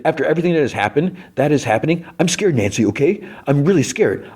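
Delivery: fast, high, hammed-up pleading; mock scared plea. Recapper voicing Jonathan confessing fear to Nancy, fast high mock plea. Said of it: "He's like".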